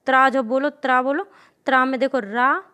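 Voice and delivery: त्रा said crisply, t then r blended; sounding out tra. Shown as a demonstration. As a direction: model the cluster त्रा for the class. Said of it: "पहले ता की ध्वनि निकलती फिर रा की निकलती".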